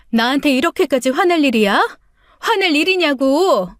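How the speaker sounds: 목소리를 높여 억울함을 터뜨리듯; 참다 못해 남편에게 소리치는 아내, 높고 큰 목소리. Acted. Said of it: "저도 참다 못해 소리치고 말았어요". (참았던 서러움이 터져 남편에게 높고 크게 따지는 외침)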